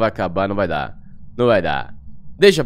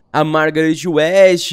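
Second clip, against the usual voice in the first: dramatic announcer; 5 semitones higher, 6 dB louder, much slower than usual. Acted. Dramatic ghost name reveal.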